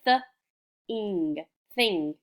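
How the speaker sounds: th-ing split then thing whole; sounded out then blended. Shown as a demonstration. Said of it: "we have".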